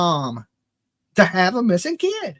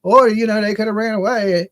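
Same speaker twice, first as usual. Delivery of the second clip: mock calm. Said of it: "these people that are just so like".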